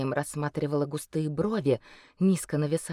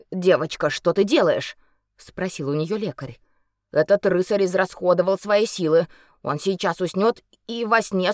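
healer voice; 5 dB louder than usual. Acted.

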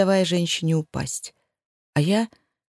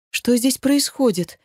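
nervous shout; 6 semitones higher than usual. Acted. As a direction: call it out on edge. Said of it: "нервно выкрикнула я".

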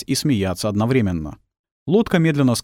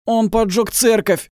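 high, slow rasping desperate cry; desperate hoarse cry; 12 semitones higher, slower than usual. A narrator's reading. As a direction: wheeze it out, flailing on the ground. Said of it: "хрипел упавший мужчина".

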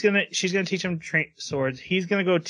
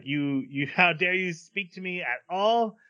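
intense fireball; 5 semitones higher than usual. Retold or imitated. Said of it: "she is a very intense fireball".

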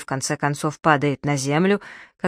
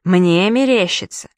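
bellowing; 3 semitones higher, 4 dB louder, slower than usual. Acted. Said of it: "заревел Плантье".

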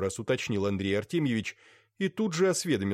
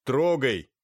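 sharp, louder shout; shouted order; 4 semitones higher, 6 dB louder than usual. A narrator's reading. Master shouts at coachman to drive off, loud. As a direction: bark the order to go. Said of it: "крикнул кучеру Дашкин".

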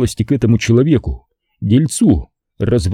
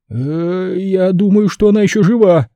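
breathless; 9 semitones higher than usual. Acted. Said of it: "задыхаясь".

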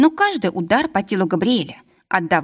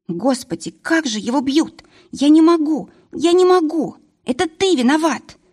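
hysterical; 8 semitones higher than usual. Acted. Varvara in hysterics.

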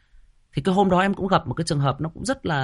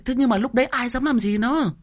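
usual speaking voice

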